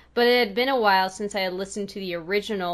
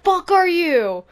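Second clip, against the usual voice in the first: indignant; 6 semitones higher, 9 dB louder than usual. Retold or imitated. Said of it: "that's how I'm going right now".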